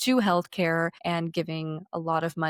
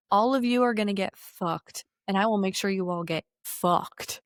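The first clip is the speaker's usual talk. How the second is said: megalomaniac rant. Retold or imitated. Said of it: "he's talking like a cartoon supervillain".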